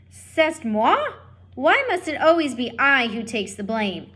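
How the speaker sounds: the mother mouse indignantly asking if it is her fault, in French. Acted. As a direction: fire it back, outraged and French. Antoinette indignant.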